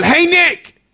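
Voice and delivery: loud high call of his name across the way; yelling out. Retold or imitated. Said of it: "who yells out".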